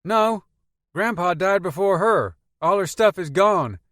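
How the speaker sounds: put-on high, lively teenage boy voice; young Peter talking about his grandma. A narrator's reading. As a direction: play the chatty kid in the back seat.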